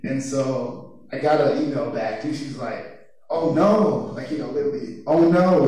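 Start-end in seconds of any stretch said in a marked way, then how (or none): 3.3-4.1 mock alarmed. Advisor's worried email reply read out, mock alarmed. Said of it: "with capital, or capital letters and exclamation point". 5.1-5.6 louder, higher "Oh no" in capital letters; mock alarmed, all caps. Advisor's worried email reply read out, louder mock alarm. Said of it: "with capital, or capital letters and exclamation point".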